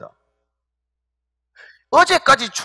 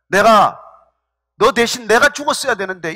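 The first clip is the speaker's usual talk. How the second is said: retold lament. Preacher voicing David mourning his son Absalom, retold lament. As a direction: imitate a father's lament, understated. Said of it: "이런 통곡을 해요".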